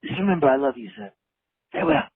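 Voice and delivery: hammy dying soldier farewell; overacted death scene. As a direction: gasp out goodbyes like a dying hero. Caller acts dying on voicemail.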